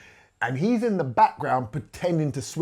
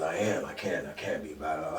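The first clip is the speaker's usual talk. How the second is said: imitating a rapper acting; 9 semitones lower, 8 dB quieter than usual. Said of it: "and he acted, it was brilliant".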